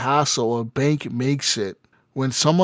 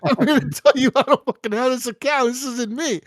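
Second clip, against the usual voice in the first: retold angry retort; 8 semitones higher than usual. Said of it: "I'm like".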